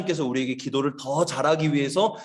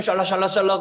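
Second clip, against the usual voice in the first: repetitive nonsense chant, imitating; mock tongues babble; 2 semitones higher than usual. Teacher imitating the other side of the prayer room, mock babble. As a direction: rattle off pretend prayer gibberish. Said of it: "저쪽에서는".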